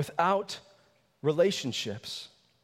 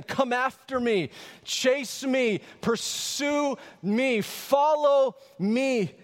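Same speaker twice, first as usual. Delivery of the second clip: building invitation; 6 semitones higher, much slower than usual. Acted. Jesus voiced inviting disciples.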